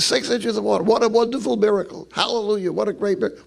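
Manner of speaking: put-on old black reverend. Reverend hears his son's Moses story, marvelling preacher. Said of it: "The old black reverend".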